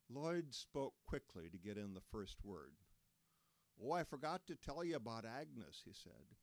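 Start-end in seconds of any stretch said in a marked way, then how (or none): 3.8-5.8 Lloyd's voice. Acted. Lloyd voiced in retold story.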